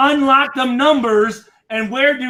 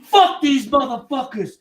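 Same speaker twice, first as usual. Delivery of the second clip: imitating Michael Irvin; 3 semitones higher than usual. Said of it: "He's like".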